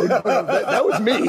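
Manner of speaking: high, laughing reply. Retold or imitated. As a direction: laugh as you correct them. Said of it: "I go".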